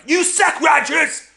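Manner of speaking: put-on bratty kid taunting a teammate; yelled insults. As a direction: yell it to put him down. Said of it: "yell things at me to kind of put me down".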